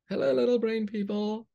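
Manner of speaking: high, sing-song hello; cheery greeting. Acted. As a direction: greet the tiny folk brightly. Greeting the story characters.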